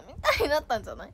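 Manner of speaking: ordinary talk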